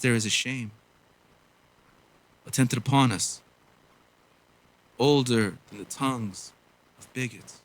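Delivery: measured, solemn poetry reading with long pauses; earnest slam-poem delivery; spoken word poem. Acted.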